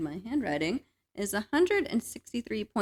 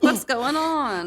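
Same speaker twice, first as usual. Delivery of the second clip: alarmed; 6 semitones higher, 6 dB louder, slower than usual. Retold or imitated.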